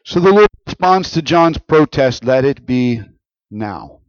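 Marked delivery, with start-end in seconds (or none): 2.2-4.0 "now" set apart after a pause; stress on "now". Shown as a demonstration. Reading Jesus' reply to John, "now" set apart for emphasis. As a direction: hold back briefly, then land "now" on its own. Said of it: "I put some emphasis on the word now".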